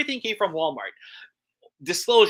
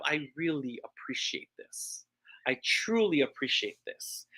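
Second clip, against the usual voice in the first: sincere thanks; 5 dB quieter than usual. Retold or imitated. Sincere gratitude voiced.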